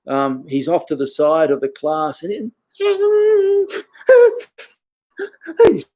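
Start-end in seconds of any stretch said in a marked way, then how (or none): 5.7-5.8 high-pitched comic bawling; hammed-up child's crying noise; mock wailing sob. Instructor imitates a kid bawling at training, mock wailing. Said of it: "crying like".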